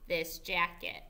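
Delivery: teacher reading along slowly with the class; slow choral reading. Shown as a demonstration. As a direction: read it slowly together. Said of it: "Read it with me".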